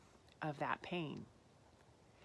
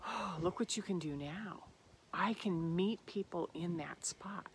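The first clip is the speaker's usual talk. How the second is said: gentle comfort; 3 dB quieter than usual. Retold or imitated. Comforting her inner child.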